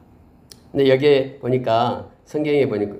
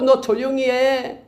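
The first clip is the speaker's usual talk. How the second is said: scolding hush; 11 semitones higher, slower than usual. Retold or imitated. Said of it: "많은 사람이 꾸짖고".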